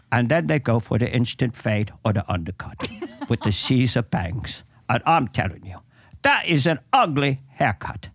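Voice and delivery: a lightly voiced Michael Caine as a grumpy barber; hint of Michael Caine, a cockney barber griping about bad haircuts. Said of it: "Michael Caine as a barber".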